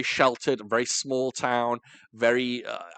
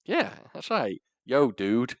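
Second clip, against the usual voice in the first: mock American accent; slower than usual. Carries on mock American impression.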